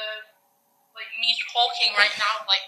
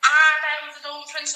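loud, slow proud declaration; grand announcement; 4 semitones higher, 6 dB louder, slower than usual. Acted. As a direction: announce yourself like royalty.

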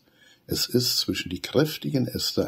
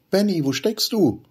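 higher, louder anxious call; worried call; 13 semitones higher, 5 dB louder than usual. A narrator's reading. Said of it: "ruft sie besorgt". (besorgt rufend)

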